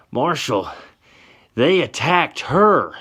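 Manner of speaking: very high, loud, slow protest; loud, indignant plea; outraged protest. Acted. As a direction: drag it out in disbelief. Johnny protesting to the marshal.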